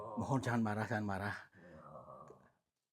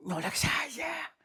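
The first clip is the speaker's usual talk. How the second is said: breathy hushed whisper, slowed down; frightened whisper; 4 dB louder, much slower than usual. Real, not acted. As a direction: whisper it as if something just touched you. Scared whisper about being touched. (berbisik ketakutan)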